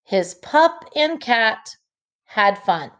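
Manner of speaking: smooth, phrased reading aloud; the fluent model reading. Shown as a demonstration. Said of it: "When I read the sentence fluently or smoothly".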